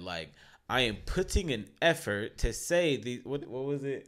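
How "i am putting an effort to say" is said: deliberately effortful, careful articulation; pushing words out. Shown as a demonstration. Showing listeners the effort to speak up, effortful and deliberate. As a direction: push each word out with effort. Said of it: "I'm actually really pushing this out".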